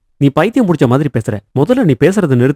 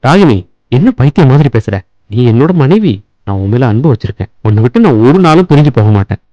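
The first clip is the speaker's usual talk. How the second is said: louder, firm but loving; raised reassurance; 5 dB louder than usual. Acted. Husband reassuring his frightened crying wife, firm and loud. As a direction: insist he will never leave her.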